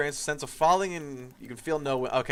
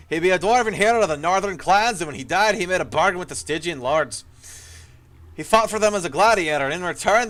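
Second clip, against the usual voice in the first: gruff dry dwarf; 2 semitones higher, 3 dB louder than usual. Acted. Ghost dwarf warning the hero of danger, gruff and loud. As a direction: play an old dwarf soldier, rough and urgent. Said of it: "his voice gruff and dry".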